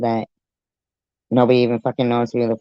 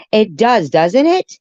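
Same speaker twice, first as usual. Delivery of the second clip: amused agreement; 9 semitones higher, 5 dB louder than usual. Real, not acted. Agreeing with a guess, after laughing.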